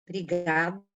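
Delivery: coughing through the word; speaking with a dry cough. Real, not acted. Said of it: "Desculpa a tosse".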